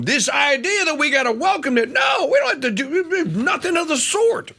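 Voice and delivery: indignant rising shout; emphatic shout. Real, not acted. Rant rejecting welcome.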